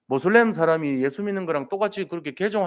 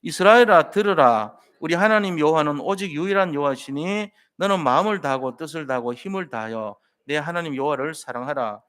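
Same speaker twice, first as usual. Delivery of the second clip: steady, measured Bible reading with the congregation; scripture reading aloud. Acted. Pastor leading the congregation in reading Acts, measured recitation. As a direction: read the verses together in a firm, even voice.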